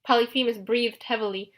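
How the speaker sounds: ordinary delivery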